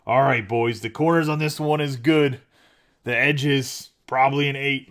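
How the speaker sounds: loud, mock-official grader addressing the boys; hammed-up expert calling out grades; playfully imitating a buddy grading cards. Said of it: "I thought he was in his group, like".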